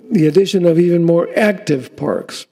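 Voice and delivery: active given extra weight; stress on active. Acted. Mayor to commission and residents, stressing active. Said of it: "And I emphasize the word active".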